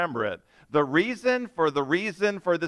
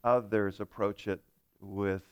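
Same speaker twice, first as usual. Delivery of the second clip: prayer; 2 semitones lower than usual. Real, not acted. Leads opening prayer.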